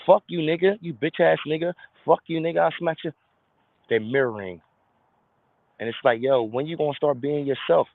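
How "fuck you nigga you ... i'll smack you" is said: mock aggressive threat. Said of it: "they're mirroring even the ignorance".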